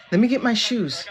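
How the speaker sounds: chuckling "Let me get my shoes"; laughing through it. Pretend. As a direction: say it while breaking into a laugh. Laughing mock line.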